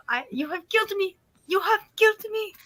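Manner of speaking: laughing. Real, not acted. Laughing high protest.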